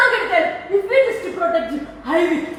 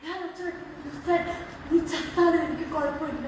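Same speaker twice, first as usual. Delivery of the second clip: hurt, subdued; 3 semitones lower, 12 dB quieter, much faster than usual. Real, not acted. Daughter repeats father's cruel words to him, soft and hurt. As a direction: voice sunk very soft.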